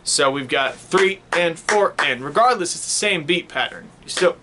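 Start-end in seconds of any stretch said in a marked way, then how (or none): 0.8-2.2 three and four and, slow and even; slow counting. Shown as a demonstration. Teacher counts the second measure for students, slowly. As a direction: pace each eighth out slowly. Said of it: "it starts on three".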